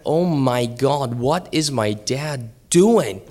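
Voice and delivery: slow, emphatic mock dismay; hammed-up freak-out; freaking-out daughter. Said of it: "She is freaking out".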